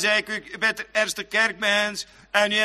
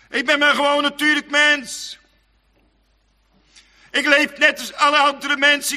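louder and higher, pleading; fervent preaching; 4 semitones higher, 7 dB louder than usual. Acted. Preacher voices the doubting sinner to the congregation, louder and higher. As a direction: cry it out over the pews.

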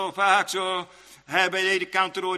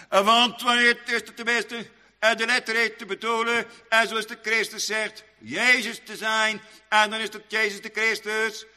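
raised, chant-like pulpit delivery; preaching; 6 semitones higher, 4 dB louder than usual. Real, not acted. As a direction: preach it in a high, steady intoning voice.

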